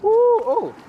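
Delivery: gasping at cold water; sharp ooh from the cold; cold shock gasps. Real, not acted.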